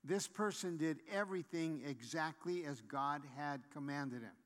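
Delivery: measured stress on "everything exactly"; deliberate emphasis on "everything exactly"; emphatic restatement. Real, not acted. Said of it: "I'm emphasizing this again".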